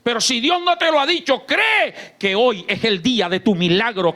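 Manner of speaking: ordinary delivery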